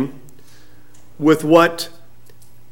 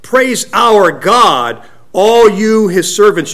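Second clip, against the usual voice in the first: voice from the throne; 4 semitones higher, 4 dB louder, slower than usual. Acted. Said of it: "came a voice saying".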